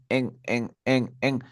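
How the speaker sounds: "en" repeated in short humming bursts; sound of N. Shown as a demonstration. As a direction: say "en" closing on a voiced n. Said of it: "de la N".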